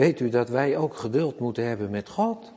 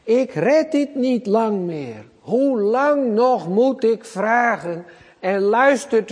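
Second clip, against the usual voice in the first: high, slow anguished cry to God; preacher voicing David's despairing cry; desperate pleading; 7 semitones higher, 3 dB louder, slower than usual. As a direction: plead slowly and high, worn out. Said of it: "die roept wel vier keer".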